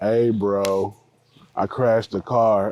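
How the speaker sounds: put-on dead level, lethargic, slow and flat. Retelling how a friend calls whenever something bad happens, imitating a lethargic friend. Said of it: "he'll call me with the most lethargic".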